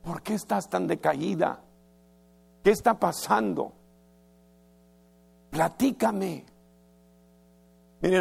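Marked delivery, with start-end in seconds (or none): 0.0-6.4 worried, tender husband. Retold or imitated. Husband Elcana gently asking his crying wife, tender and worried. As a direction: coax her softly to tell what's wrong. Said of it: "Vino con una gran preocupación".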